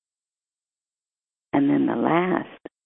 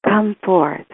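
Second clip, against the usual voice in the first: commanding call; 5 semitones higher than usual. Acted.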